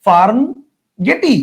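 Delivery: Farm গেটি with the final e sounded as "ee"; spelling pronunciation. Shown as a demonstration. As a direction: read গেটি as two syllables, "ge-tee". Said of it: "এই বানানটাকে যদি আমরা উচ্চারণ করি".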